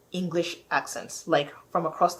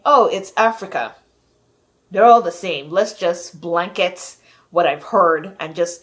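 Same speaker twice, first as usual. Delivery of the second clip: louder, breezy mock generalizing; dismissive mock assumption; 7 dB louder than usual. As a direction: imitate someone casually lumping everyone together. Mimics careless Hollywood assumption.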